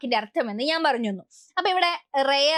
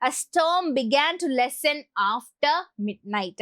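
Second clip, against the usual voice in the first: example sentence; much slower than usual. Shown as a demonstration. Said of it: "സിനോണിമായിട്ട് lesson എന്നാണ് വരിക".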